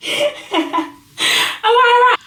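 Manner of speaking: loud, high hype call; excited shout. Real, not acted. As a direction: shout it out, pumped. Excited rhetorical question.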